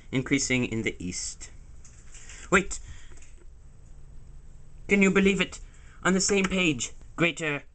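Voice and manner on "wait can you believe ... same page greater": surprised. Acted. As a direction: gasp it out like a big discovery. Discovers chicken in guide.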